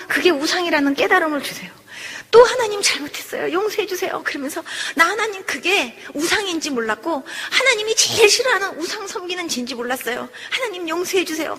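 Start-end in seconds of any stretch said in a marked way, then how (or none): 2.4-4.2 high, pleading prayer, retold; acted repentant plea; begging forgiveness. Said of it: "또 빌면서요". 4.9-11.6 acted pleading prayer; begging forgiveness. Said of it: "또 빌면서요".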